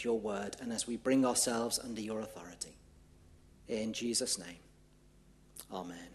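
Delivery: hushed pastoral prayer, dropping away at the end. Acted. Leads the congregation in prayer.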